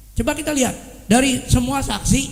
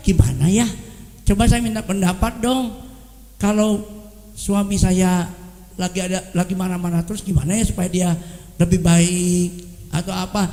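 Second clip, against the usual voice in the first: asking advice; 5 semitones lower than usual. Retold or imitated. Wife asking friends for advice.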